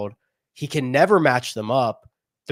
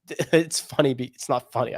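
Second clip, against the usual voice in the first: amused laughter. Real, not acted. Podcast host amused by a golfer's bad timing, laughing lightly. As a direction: talk through a light laugh. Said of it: "I shouldn't laugh".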